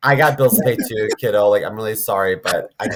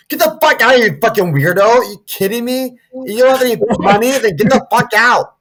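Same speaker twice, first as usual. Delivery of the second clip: high, hammed-up outrage; angry Bronx clerk; 8 semitones higher, 3 dB louder than usual. Bronx store clerk kicking out a singing kid, mock angry. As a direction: throw the kid out in mock disbelief. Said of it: "a shoe store in the Bronx".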